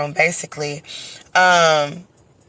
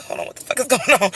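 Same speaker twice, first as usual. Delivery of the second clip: sudden panicked blurt, fast and higher; alarmed outburst; 5 semitones higher, 4 dB quieter, faster than usual. Retold or imitated. Birthing mother startled by surgery table, panicked blurt. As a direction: jolt out a startled question.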